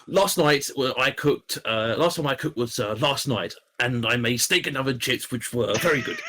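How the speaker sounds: lightly voiced Boris Johnson; a hint of Boris's halting delivery; Boris impression. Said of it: "Your voice, sounds like Boris".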